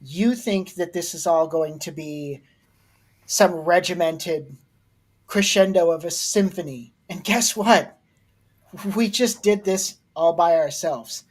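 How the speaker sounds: a hint of a proud dad. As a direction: speak like a lecturing father. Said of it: "I'm gonna put on the dad voice".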